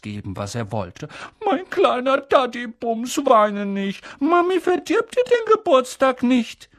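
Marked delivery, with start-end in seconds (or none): 1.4-6.7 put-on high, sugary baby talk of a doting mother; mother soothing her whining boy in sweet baby talk. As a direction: coo to her spoilt son. Mother coos to crying son.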